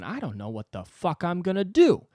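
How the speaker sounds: put-on a touch of a young comic losing it; hammed-up young comic despairing; whiny young comic. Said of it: "a twenty-three-year-old going".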